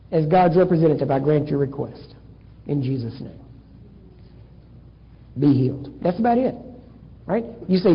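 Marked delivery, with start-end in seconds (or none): 0.1-5.9 low, measured, sinking softer; healing pronouncement. Acted. Minister grants a healing request in Jesus' name, low pronouncement. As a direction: pronounce it with quiet authority, pitch dropping low.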